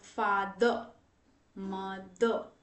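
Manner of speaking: "फादर, मदर" ending in uh, with no r; final schwa. Shown as a demonstration. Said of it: "उस अ sound का". ("फादर, मदर" के अंत में अ, र नहीं)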